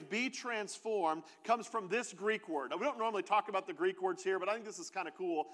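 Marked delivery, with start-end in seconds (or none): 0.0-1.2 slow and soft, "be transformed" drawn out; slow emphasis. Shown as a demonstration. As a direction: linger on "be transformed". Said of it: "That phrase".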